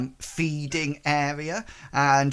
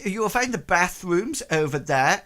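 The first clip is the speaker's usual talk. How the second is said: guided-tour woman character; 5 semitones higher, 3 dB louder than usual. Acted. Game master voices woman giving tour.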